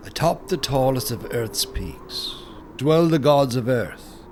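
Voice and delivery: usual speaking voice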